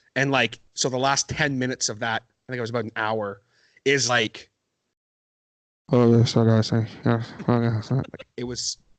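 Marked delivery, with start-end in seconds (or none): 5.9-7.9 mock drunk slurring and rambling. Retelling how they sounded on an earlier podcast episode: imitating drunk slurring. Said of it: "That's how drunk I was".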